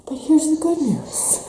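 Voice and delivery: playful stage whisper; hushed teasing reveal. Real, not acted. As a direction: lean in and whisper the secret. Turning to the good news.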